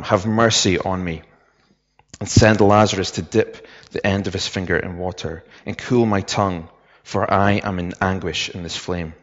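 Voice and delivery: measured Bible reading with softened phrase endings; unhurried, restrained reading aloud from scripture. Real, not acted. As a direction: read the passage solemnly and evenly, pausing between phrases. Reads the Bible passage aloud.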